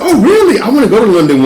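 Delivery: high, giggly, excited gushing; excited white girl. Retold or imitated. Passenger excited about London, high and giggly. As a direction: gush like a starstruck fan.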